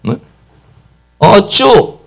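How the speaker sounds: a mock-defiant "어쭈?", pitch up; lightly hammed scoffing taunt; mocking challenge. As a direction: goad them like a bully. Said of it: "이렇게 말한다든지".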